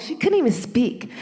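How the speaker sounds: ordinary talk, nothing marked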